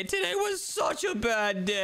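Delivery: drawn-out, slow whine; upset complaint. Acted. Complaining to brother about a bad day, drawn-out whine. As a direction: moan about it, dragging the words.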